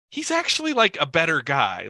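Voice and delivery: voicing a first-time viewer who is fooled; naive viewer's voice. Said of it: "you first look at Brulard and say, like".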